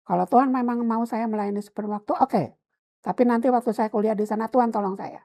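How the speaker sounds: half-angry bargaining with God; retold anger. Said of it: "Sambil marah gitu ya".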